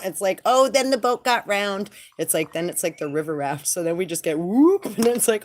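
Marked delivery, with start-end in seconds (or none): 0.4-1.9 high, loud gleeful cry of a rafting ride; excited boat ride. Retold or imitated. Telling friends about the wild boat ride, gleeful shout. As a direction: squeal it like you're riding the rapids. Acting out riding a rough boat.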